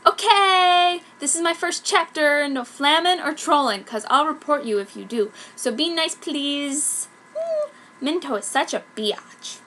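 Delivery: put-on high, loud gushing teen author; fanfic author voice. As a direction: read it like the giddy kid who wrote it. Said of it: "Author's note".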